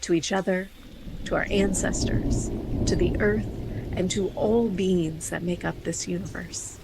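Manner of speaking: measured, evenly paced host read; scripted podcast intro. Real, not acted. Host welcomes listeners to a meditation podcast, scripted intro read.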